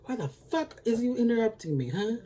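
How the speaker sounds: hammed-up angry snap at the nurse; mock angry doctor. Angry doctor snapping at the head nurse, mock yell. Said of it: "And he's mad".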